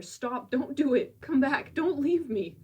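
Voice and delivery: retold screaming plea. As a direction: imitate him begging his brother to stay. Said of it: "who's screaming and begging his brother".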